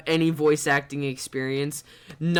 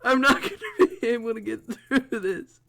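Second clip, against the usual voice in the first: high, squeaky laugh through the words at first; helpless laughter; 7 semitones higher, faster than usual. Real, not acted. Streamer overwhelmed by the game, helplessly laughing. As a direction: try to speak through real laughter. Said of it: "I can't stop laughing".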